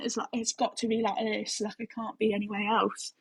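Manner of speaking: British accent with a lot of teeth; toothy British accent. Shown as a demonstration. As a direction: do a British accent, showing too much teeth. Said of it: "a lot of teeth when I do".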